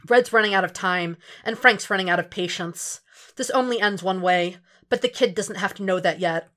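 usual speaking voice

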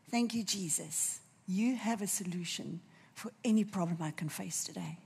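soft whispered prayer of thanks. Pretend. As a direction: breathe it as a private prayer. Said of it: "you're gonna say".

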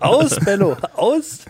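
loud, high command to a dog. Pretend. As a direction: snap Aus at the dog Bello. Commanding a dog named Bello.

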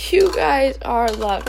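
slow, measured repeat; emphatic assurance. Real, not acted. Speaker reassuring viewers of love, slowly and firmly. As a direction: let each word sink in.

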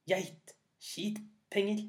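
eager command. Acted. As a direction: bellow the charm at the goat, slowly. Thieves try the goat.

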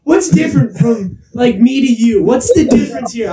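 high-pitched wounded questioning; retold hurt. Acting out rejected friend comparing himself, hurt. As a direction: imitate a hurting friend pleading. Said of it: "he's clearly hurting a little bit".

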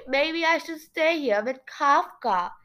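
lightly voiced nasal character; Shivereen. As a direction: pipe up through the nose. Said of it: "Shivereen piped up".

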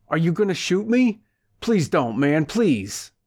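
high, tearful pleading; imploring through tears. Acted. Frightened man begs the driver through his tears. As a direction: beg for his life, crying. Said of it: "he implored through his tears".

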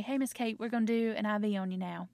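matter-of-fact clinical announcement to a patient; technical. Acted. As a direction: tell the patient the procedure, strictly business. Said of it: "that feels very technical".

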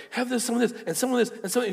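high, loud spree of piling on treats; excited urging. Retold or imitated. Gleefully dumping treats in cart.

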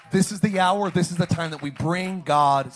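loud urgent call; rally the people to bring God; loud preaching. Real, not acted. Pastor urging the church, loud rally.

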